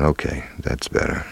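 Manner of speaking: whispered relief. Retold or imitated. Relief after a breath of air.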